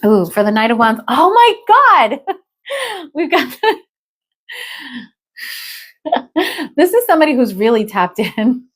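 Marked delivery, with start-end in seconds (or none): 1.1-8.7 high, laughing outburst of disbelief; real laughter breaking up the words. Real, not acted. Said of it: "I'm laughing because".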